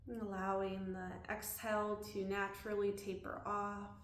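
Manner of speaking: calm body-scan guidance with long pauses; unhurried, leaving room to breathe between phrases; guided meditation. Real, not acted. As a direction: guide them gently through a body scan.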